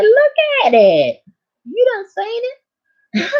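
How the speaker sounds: high squeaky giggling voice; laughing tease. Retold or imitated. Patient teasing her gynecologist, high giggling squeak.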